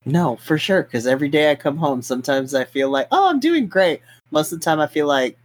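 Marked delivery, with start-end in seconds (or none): 3.1-4.0 high, chirpy self-congratulation; mock upbeat self-talk. Teacher voicing a good day on coming home, playfully chirpy. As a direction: pitch it way up, playfully pleased. Voices rare good feeling after work.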